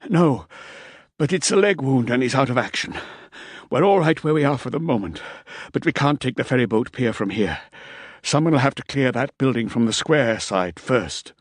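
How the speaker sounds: lightly voiced winded soldier; breathless soldier report. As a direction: report it urgent and pinned down. Rausch continues his report.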